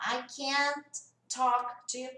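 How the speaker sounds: "I can't talk to you" word by word, slowly, every sound separate; over-enunciated "can't". Shown as a demonstration. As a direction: say "can't" fully, slowly, with a gap after it. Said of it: "ao invés de eu falar". ("can't" bem articulado, palavra por palavra)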